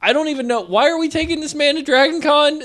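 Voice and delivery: high laughing half-shout; laughing disbelief. Real, not acted.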